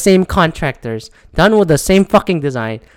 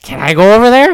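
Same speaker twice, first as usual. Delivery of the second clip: high, louder, climbing to the end; mock eager question; 5 semitones higher, 4 dB louder than usual. Speaker joking about a town called Bachelor, mock eager. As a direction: ask with exaggerated rising hopefulness.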